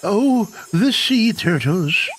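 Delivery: put-on high, drawn-out old-timer voice; old tortoise character. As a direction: play a chummy old tortoise mayor. Voices Tortimer in the game.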